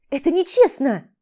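indignant yell in a teasing game; outraged shout. Acted. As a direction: cry foul at the top of your voice. She protests the game.

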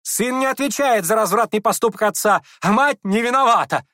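high and loud fervent squeal; high shrill heated outburst. A narrator's reading. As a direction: squeal it with passion. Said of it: "с жаром провизжал Ипполит".

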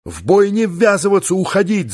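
high, pressing commander's cry; Бабакулов shouting. A narrator's reading. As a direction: call out an order to the squadron. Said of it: "закричал Бабакулов".

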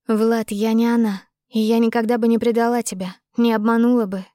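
a hint of the earnest young woman; lightly voiced heroine. Heroine swears she would never betray him, lightly voiced earnestness.

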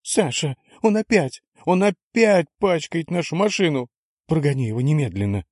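high, piercing wife's cry; piercing shrill voice. A narrator's reading. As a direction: screech it out high and loud. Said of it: "пронзительный голос жены".

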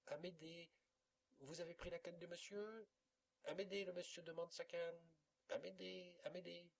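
appeler quelqu'un à la cantonade, plus aigu; héler Amédée dans toute la maison; appels répétés. A narrator's reading. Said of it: "chacun se mit à appeler Amédée". (on appelle l'enfant, voix haute et insistante)

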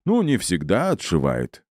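slow, teasing hint; sly and mysterious, unhurried; enigmatic smile. Acted. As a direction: draw it out with a secretive smile. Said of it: "с загадочной улыбкой произнёс пират".

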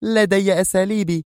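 high-pitched, unyielding reply; stern. A narrator's reading. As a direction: shut the question down sternly. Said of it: "أجابته في صرامة". (بصرامة)

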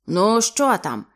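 slow, loud angry demand; angry snap. Acted. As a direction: bark it out slowly, annoyed. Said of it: "сердито кинув він".

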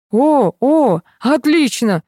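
high, loud burst of joy; delighted. A narrator's reading. Vladimir delighted by the bigger number, high excited exclaim. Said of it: "обрадовался Владимир".

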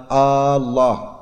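"آه الله" with a long opening "aa"; a slow questioning "aa" on "آه الله"; drawn-out hamza. Shown as a demonstration. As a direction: stretch the first vowel of "آه الله" slowly. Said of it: "فإن مد همزة الله".

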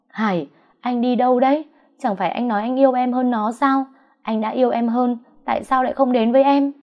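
high, urgent begging; clinging to him as he leaves; desperate pleading call. A narrator's reading. Mistress clings to leaving lover. (níu kéo van nài)

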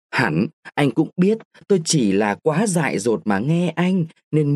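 lightly voiced girl, reproachful; young woman pleading. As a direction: plead with a wronged lover's reproach. Nguyệt pleading with Phong. (giọng cô gái trách móc, van lơn)

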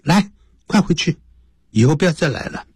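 high, dismissive order from a doctor; acted telling-off; scolding doctor. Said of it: "就来这个教训我们".

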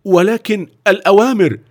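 high, unsure objection; a guard caught in doubt; hesitant. Acted. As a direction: trail off as if unsure of the rules. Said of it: "وقال في تردد".

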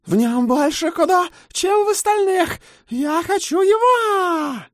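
piercing, very high, loud shriek. Acted. Harpy Kai shrieking her claim on the boy. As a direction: screech it like a frenzied harpy.

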